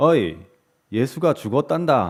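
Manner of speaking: put-on elderly woman's Gyeongsang dialect. Storyteller quoting a grandmother chatting with two others, Gyeongsang grandmother dialect. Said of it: "경상도 할머니 ... 사투리가 잘 될지 모르겠는데".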